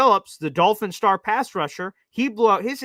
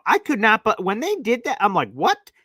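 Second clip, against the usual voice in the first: higher, louder incredulous outburst; exasperated disbelief; 6 semitones higher, 3 dB louder than usual. Real, not acted. Host recalling the baffling run calls, incredulous. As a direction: throw up your hands at the play call.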